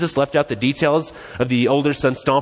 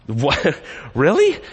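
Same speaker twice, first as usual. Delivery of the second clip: mock disbelief; 2 semitones higher, much slower than usual. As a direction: act stunned at such a father. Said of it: "you're like".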